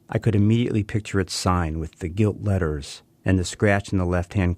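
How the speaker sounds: unhurried literary reading; story narration. A narrator's reading. Author reading his chosen story to the listeners, calm narration. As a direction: read it as a memoir, savoring the memories.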